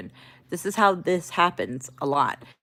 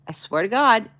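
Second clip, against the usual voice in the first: higher-pitched, sincere vow; nice reassurance; 4 semitones higher than usual. Retold or imitated. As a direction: swear it nicely, to reassure. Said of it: "First tone was nicely".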